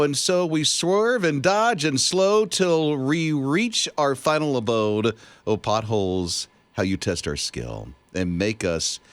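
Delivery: slow, grand recital of a poem; dramatic poem reading. Acted. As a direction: read it like an epic ode. Reads AI poem over music.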